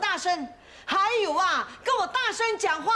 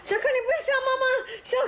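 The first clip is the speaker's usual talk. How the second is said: fast, crying plea; 6 semitones higher, much faster than usual. Acted. Mother tends feverish son.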